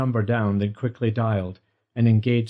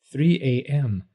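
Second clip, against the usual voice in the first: slow, just-woken murmur; groggy; 3 semitones higher, slower than usual. A narrator's reading. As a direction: read it half asleep. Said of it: "Groggily he peered at his watch".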